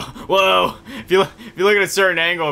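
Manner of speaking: excited whoa. Real, not acted. Gamer showing viewers a glitch, excited and fast. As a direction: rush it out in amazement.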